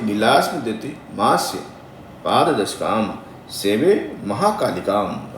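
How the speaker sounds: measured, chant-like recitation of a mantra; slow devotional Sanskrit intoning. Shown as a demonstration. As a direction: intone each syllable carefully like a priest. Recites the joined verse.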